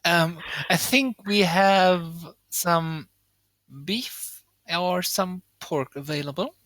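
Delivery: slow, drawn-out tavern keeper; tiefling host. Acted. Tiefling host tells diners what meat is available, drawn out. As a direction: ponder the menu aloud, stretching the words.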